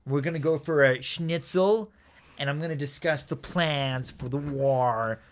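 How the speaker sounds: a hint of a movie American, words stretched out; Tom Cruise American accent. Tom Cruise's officer planning the war, American accent. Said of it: "It's a terrible American accent".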